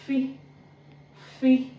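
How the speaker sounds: "Fi" said as a short "fee"; letter-sound demo. Shown as a demonstration. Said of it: "the same way it's pronounced in English".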